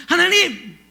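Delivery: high, loud, wailing protest to God; acted outcry, stretched words building into indignant questions; anguished questioning. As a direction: plead and demand an answer, near tears. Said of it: "그렇게 하는 거예요".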